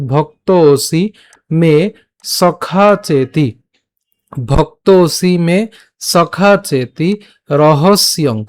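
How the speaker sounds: "ভক্ত ওসি" joined with a long o; teacher modelling "ভক্ত ওসি মে" phrase by phrase; pronunciation demo. Shown as a demonstration. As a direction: draw out the vowels of "সখা চেতি" slowly. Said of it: "তাহলে উচ্চারণটা কেমন হবে".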